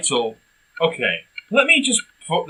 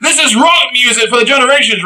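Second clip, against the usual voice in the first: mock announcer; 5 semitones higher, 4 dB louder than usual. Mock selling the film's rock claim.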